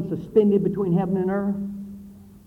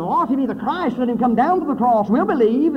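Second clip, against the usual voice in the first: higher, louder sneering taunt; mocking scoffers; 5 semitones higher, 4 dB louder than usual. Preacher voicing the crowd that mocks the crucified Christ, sneering. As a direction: scoff at him as the jeering crowd would. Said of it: "make light of him".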